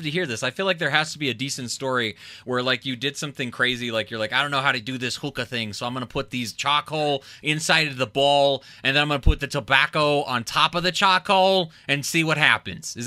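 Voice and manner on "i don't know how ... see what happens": a light mock New York accent, getting louder; hammed-up New York accent, only lightly done. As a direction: play a clueless guy with a hint of New York accent. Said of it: "that was the worst New York, uh, accent ever".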